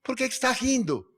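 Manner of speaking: a stranger yelling an annoyed question across the airport queue; retold yell. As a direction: shout it over to the next queue. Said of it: "lá na outra fila gritou".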